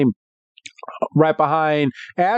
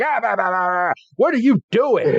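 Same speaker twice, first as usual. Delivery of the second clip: higher-pitched mock sputtering; no-chill outburst; 5 semitones higher than usual. Burned Squirtle turns on Charizard, mock-outraged sputter. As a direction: sputter in mock outrage, then demand an answer. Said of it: "just had no chill".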